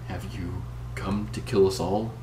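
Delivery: lightly voiced frail old woman; a hint of a faint elderly woman. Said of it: "a faint, elderly voice".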